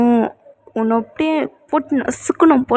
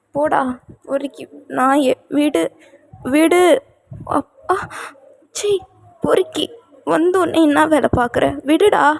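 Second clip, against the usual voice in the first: mock annoyed; 4 semitones higher than usual. Wife pushes husband away.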